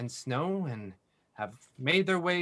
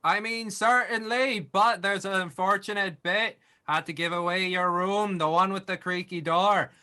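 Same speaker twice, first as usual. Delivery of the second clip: innkeeper voice; 5 semitones higher than usual. Acted. The innkeeper explains.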